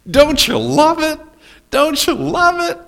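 very high, loud delight; thrilled at the story. Real, not acted. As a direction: share the joke with the crowd.

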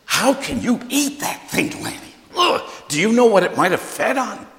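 disgusted mother. Retold or imitated. Mother scolding son about eating fish, high and disgusted. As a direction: recoil in disgust as his mother. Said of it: "that put my mother into overload".

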